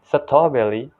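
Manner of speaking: "strawberry" said "sa-taw-belly"; Thai-style "strawberry"; Thai pronunciation. Shown as a demonstration. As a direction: demonstrate "strawberry" with L for R. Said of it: "See the difference from".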